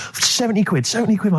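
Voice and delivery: hammy shout of a haggling salesman; imitated shout. Quoting the van salesman shouting at him. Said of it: "he was just shouting at me".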